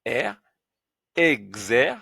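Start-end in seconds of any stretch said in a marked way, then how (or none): 1.1-1.9 exer with the r sounded; syllable exer. Shown as a demonstration. Teacher building up the word exercice. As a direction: say exer clearly. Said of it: "E devant R. R".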